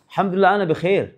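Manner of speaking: quick reply in an Arab accent; Arab-style pronunciation. Shown as a demonstration. Teacher gives class the reply, quick Arab accent. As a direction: run it together like an Arabic speaker. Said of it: "mau gaya pelafalan mirip orang Arab".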